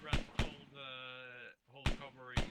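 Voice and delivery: loud order to hold; shouted orders. Real, not acted. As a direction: bark the order across the field. Squad leader calling orders.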